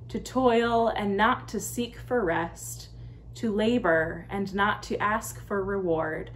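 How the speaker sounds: slow, measured congregational prayer with pauses. Real, not acted. Pastor leads the church in the prayer of the day, slow and reverent. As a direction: lead the prayer in unhurried, separated phrases.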